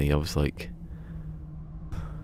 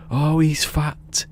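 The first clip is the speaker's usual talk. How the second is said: high, slow mock lament; imitating the man; 10 semitones higher, 5 dB louder, much slower than usual. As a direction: stretch it out in a high put-on wail. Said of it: "He goes, he goes".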